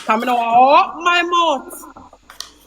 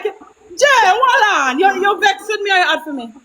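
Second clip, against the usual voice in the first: higher, calm ask; 5 semitones higher than usual. Retold or imitated. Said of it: "you coulda come like".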